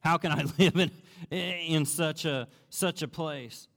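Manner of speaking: loud, then slowing in despair; loud disgusted lament; dismayed outcry. Retold or imitated. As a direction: cry out at the filthy place, then drag it. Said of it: "I'm sure you think".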